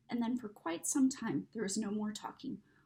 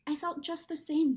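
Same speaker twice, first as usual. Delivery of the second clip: breathless; 7 semitones higher, 5 dB louder than usual. Acted. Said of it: "said Edmund in a breathless voice".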